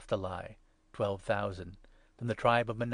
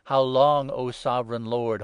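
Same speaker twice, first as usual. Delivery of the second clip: loud, pleading outcry; louder, pleading call; loud cry; 7 dB louder than usual. A narrator's reading. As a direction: cry out to the Lord in anguish. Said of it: "They cried in a loud voice".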